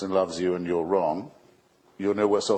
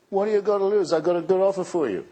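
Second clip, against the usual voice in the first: higher, slick salesman pitch; cheap huckster; 8 semitones higher, faster than usual. Retold or imitated. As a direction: sell it like a used car dealer. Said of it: "can you imagine anything cheaper".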